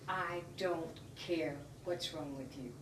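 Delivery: word by word, slow and quiet; cold dismissal. Retold or imitated. Officer dismissing a sick woman's plea, slow dismissal.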